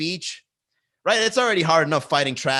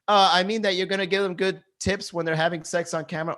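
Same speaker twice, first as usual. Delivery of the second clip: chat commenter voice; 6 semitones higher than usual. Retold or imitated.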